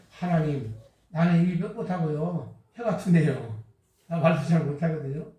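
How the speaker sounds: low, hesitant mumble of a reluctant man; timid Moses. Acted. Moses timidly pleading with God, low hesitant voice. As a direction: shrink back and plead you can't speak.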